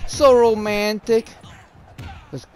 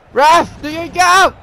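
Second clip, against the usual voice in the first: loud frustrated shout at the ref; pleading with the referee; 8 semitones higher, 5 dB louder than usual. Real, not acted. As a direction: demand the ref act. Yelling at referee.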